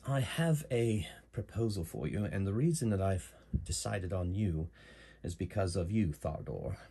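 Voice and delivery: lightly voiced British accent; a touch of English accent; Mirandol's British accent. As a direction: speak as a proper British client making a proposal. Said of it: "So she has a British accent".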